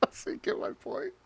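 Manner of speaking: breathless, laughing it out; laughing so you get my point; laughing question. Real, not acted. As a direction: ask through the laugh. After laughing.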